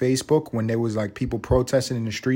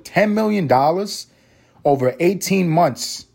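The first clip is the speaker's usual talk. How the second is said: amazed; 4 semitones higher, slower than usual. Real, not acted. Stunned by the sum.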